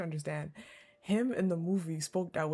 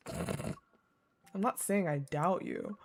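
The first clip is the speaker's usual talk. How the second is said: measured visual-novel read-aloud; composed narrator reading a romance; story narration; 3 semitones lower than usual. A narrator's reading. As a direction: read the story evenly and unhurriedly.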